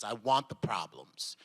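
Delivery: whispered, low and soft; quiet whispered insistence; hushed aside. Real, not acted. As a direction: drop to a whisper for emphasis. Restating wanting challenges.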